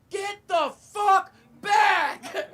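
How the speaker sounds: high, drawn-out yell of a panicked guard; mock shout. Comic retelling of the security guard shouting at a crackhead, screamed and stretched out. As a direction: bellow it like a guard losing it.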